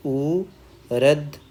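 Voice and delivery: ऊरध stretched very slowly, syllable by syllable; broken into syllables. Shown as a demonstration. Teacher breaks the word down for students, slowly. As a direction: draw out ऊरध slowly so each part is clear. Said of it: "फिर वम, ऊरध".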